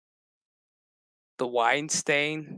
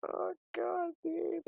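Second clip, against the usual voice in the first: breathless after laughing; 14 semitones higher, 11 dB quieter, slower than usual. Real, not acted.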